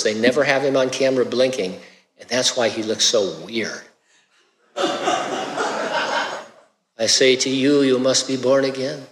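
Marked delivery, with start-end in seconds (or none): 4.8-9.1 mock-solemn line in a Hispanic accent; put-on Hispanic accent for a film Jesus. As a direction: play it slightly softer, with a joke Hispanic accent. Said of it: "I'm doing a Hispanic accent".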